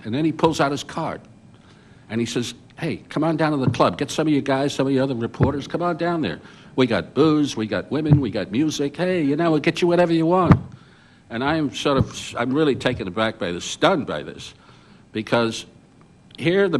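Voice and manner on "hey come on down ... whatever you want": lightly voiced club hustler, pitched up; mildly hammed-up sales pitch to reporters; Jack Ruby. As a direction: coax them along like a club tout. Acted nightclub owner hustling reporters.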